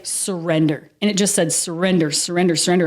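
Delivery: low, calm repeated surrender; inner voice surrendering. Retold or imitated. Guest voicing her inner self telling her to surrender, calm and low. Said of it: "something in me was just like".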